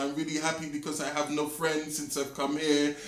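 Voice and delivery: badly imitated Arabic accent. Retelling an Egyptian girl's chat with him, mock Arabic accent. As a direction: mimic an Arabic speaker's English, lightly. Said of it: "this is a terrible Arabic accent".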